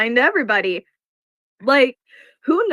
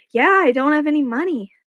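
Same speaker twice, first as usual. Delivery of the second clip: higher-pitched poor-me act; mock helplessness; 4 semitones higher than usual. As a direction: play up being broke and helpless, not in earnest. Mimics playing broke and helpless.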